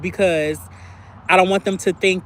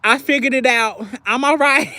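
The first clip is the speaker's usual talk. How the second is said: higher, falsely cheerful reassurance; a hint of fake-fine cheer to her sister; mock breezy; 6 semitones higher than usual. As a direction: brush it off brightly. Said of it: "I texted back and I was like".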